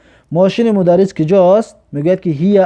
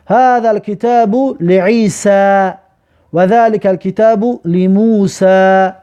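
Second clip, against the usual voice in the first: very slow, raised recitation; slow model reading; 3 semitones higher, much slower than usual. Shown as a demonstration. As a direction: stretch each word for learners. Teacher reads Arabic example sentence.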